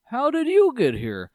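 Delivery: puzzled high voice. Retold or imitated. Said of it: "And he's like".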